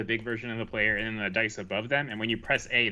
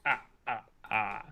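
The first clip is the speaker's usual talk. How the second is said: count laugh; 4 dB quieter than usual. Pretend. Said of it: "doing the count laugh".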